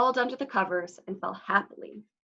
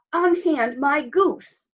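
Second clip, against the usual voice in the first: loud, slow, higher demand; giant's cry; 6 semitones higher, 6 dB louder, slower than usual. A narrator's reading. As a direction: bellow the order slowly. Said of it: "the monster cried".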